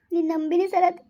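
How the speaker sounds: crying as she pledges her trust; a choked, tearful promise; tearful plea. Acted. Girl tells Sarath he is everything, crying. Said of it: "ನೀನ್ ಅಳ್ಬೇಡ".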